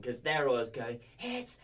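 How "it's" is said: much higher, long drawn-out ring announcer call; Bruce Buffer. Retold or imitated. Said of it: "I went full Bruce Buffer on it".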